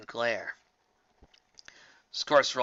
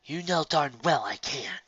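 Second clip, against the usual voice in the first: acid; 4 semitones higher, slower than usual. Acted. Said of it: "Sparkle replied acidly".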